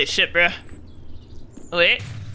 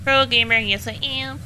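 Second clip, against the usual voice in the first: smug boast; 4 semitones higher than usual. Real, not acted. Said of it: "I'm such a pro gamer".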